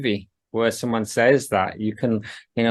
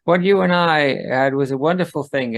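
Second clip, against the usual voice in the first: lightly voiced cartoon character, starting higher; Cleveland; 3 semitones higher than usual. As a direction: read it as a light impression of the character. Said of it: "Favorite Cleveland delivery of this entire thing".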